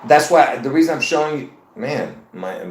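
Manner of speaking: speaking around slipping dentures; words whistling through loose false teeth. Real, not acted. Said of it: "almost my dentures flew out of my mouth".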